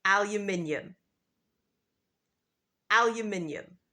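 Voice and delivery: aluminium with five syllables, al-yoo-MIN-ee-um; British aluminium; British pronunciation. Shown as a demonstration. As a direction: say Aluminium the British way, -ium ending. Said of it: "In British English, we say".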